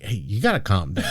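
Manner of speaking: low, soft hushing; retold calming. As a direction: imitate quietly talking someone down. Retold husband calming his wife.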